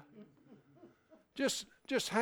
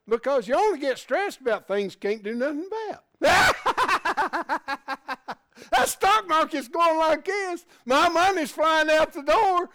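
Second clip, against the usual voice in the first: loud, high, laughing rant; 13 semitones higher, 11 dB louder than usual. Real, not acted. Preacher laughing to the church about money worries. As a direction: laugh through the words at the stock market.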